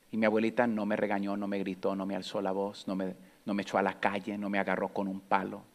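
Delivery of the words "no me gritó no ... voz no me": ordinary talk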